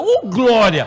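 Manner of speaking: loud, laughing cry of glória; Pentecostal shout of joy. Pretend. Preacher joking how a Pentecostal would react, loud happy cry. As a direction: pretend to burst out like a Pentecostal. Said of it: "se eu fosse pentecostal naquela hora".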